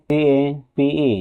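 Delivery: very slow, letter-by-letter spelling of সিএপিই. Shown as a demonstration. Teacher spells a word for students, drawn out letter by letter. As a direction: stretch out each letter of সিএপিই. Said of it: "এটা BCB rules হয়ে গেছে".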